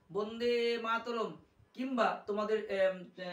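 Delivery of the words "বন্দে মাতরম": "বন্দে মাতরম" with the vowel of "বন্দে" held long; drawn-out slogan. Shown as a demonstration. Teacher demonstrating a slogan, "বন্দে" drawn out before "মাতরম". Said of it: "কিংবা slogan".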